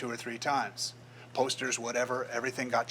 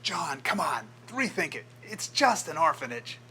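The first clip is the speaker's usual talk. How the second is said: retold yell; 5 semitones higher, 3 dB louder than usual. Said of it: "the guy yells out to him".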